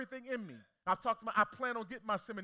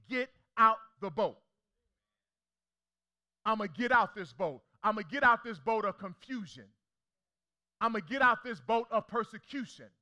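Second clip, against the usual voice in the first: preaching refrain; 3 dB louder than usual. Real, not acted. Preaching build on repeated refrain.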